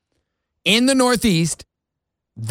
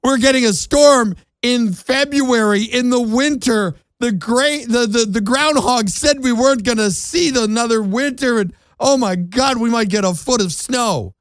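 higher, hammed-up frantic whine; mock panic; 5 semitones higher than usual. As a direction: play a panicked mayor, mocking. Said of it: "The mayors are freaking out".

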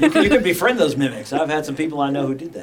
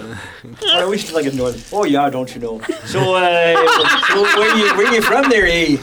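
put-on Minnesotan accent. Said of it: "That's Furbolgs, man".

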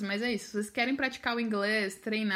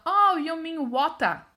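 louder, drawn-out Australian "water", no final r; higher, exaggerated Australian-accented question; imitated Australian accent; 5 semitones higher, 7 dB louder, much slower than usual. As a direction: mimic an Australian's dawning realisation, slowly. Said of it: "eles têm um sotaque diferente".

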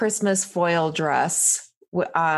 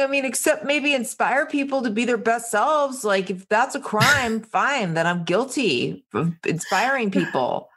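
higher, whiny protest; mock indignant whine; 4 semitones higher than usual. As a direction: play a sulking contestant wronged. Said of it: "He's so mad".

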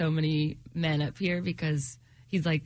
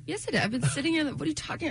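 indignant, upset; 9 semitones higher, faster than usual. Retold or imitated. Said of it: "I was like".

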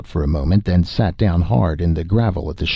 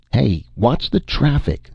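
warning call; 6 semitones higher, slower than usual. Acted. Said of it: "the driver warned".

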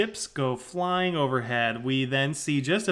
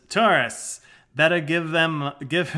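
louder put-on Aussie bloke; Australian accent; 3 semitones higher, 5 dB louder than usual. Husband grumbling to his wife about tourists, Australian accent. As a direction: have a go at broad Australian. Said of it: "In his Australian accent".

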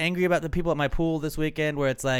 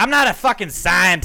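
louder, higher mock protest; mock indignant outburst; 6 semitones higher, 9 dB louder than usual. Teased by his cohost, he fires back in mock outrage. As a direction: throw it back at him in playful outrage.

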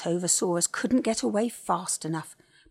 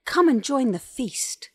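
higher, louder, eager call; welcoming storybook call; cheery invitation; 6 semitones higher, 6 dB louder than usual. A narrator's reading. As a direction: invite everyone in brightly. Colin invites animals to eat.

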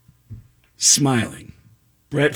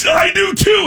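much higher and a bit louder; star-struck squeak; 3 dB louder than usual. Retold or imitated. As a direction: blurt it out in a giddy squeak. Star-struck fan answering his hero.

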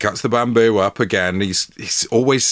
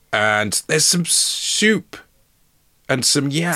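high, slow, slightly Scouse delivery; odd put-on Scouse lilt; Scouse-sounding; 6 semitones higher, slower than usual. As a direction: stretch it out with a hint of Scouse. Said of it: "Is he Scouse?".

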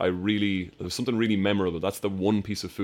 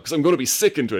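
queasy Willie; 7 semitones higher, 6 dB louder, faster than usual. Retold or imitated. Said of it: "And he, like, takes it off".

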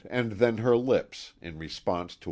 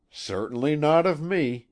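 curt, stiff and formal; stiff, cold master's reply; stiffly; 8 semitones higher, 5 dB louder than usual. A narrator's reading. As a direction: cut her off coldly. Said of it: "he replied stiffly".

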